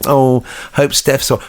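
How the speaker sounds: slow, cooing mock concern; hammed-up sympathy for a poorly patient. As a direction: imitate sympathetic well-wishers, drawn out. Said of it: "a load of sympathetic comments".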